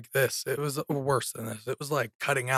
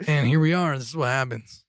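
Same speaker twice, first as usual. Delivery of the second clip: hoarse, raspy throat. Real, not acted. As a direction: talk through a raspy sore throat. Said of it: "his voice is a little raspy".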